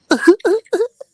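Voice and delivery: loud shrieking laugh; high squealing laugh. Real, not acted. Laughs at childhood photo.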